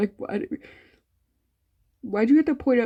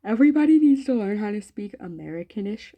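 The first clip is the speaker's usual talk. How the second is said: lightly imitated video girl, a bit louder; hint of a girl lecturing viewers, louder; imitating a girl; 2 semitones higher, 6 dB louder than usual. Quoting a girl from videos about language, light imitation. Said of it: "It's like that one girl".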